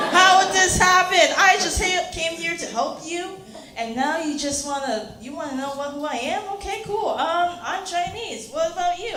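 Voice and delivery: high, agitated mock protest; flustered outburst. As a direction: start loud and high, then stay rattled. Acted flustered reaction to lady's question.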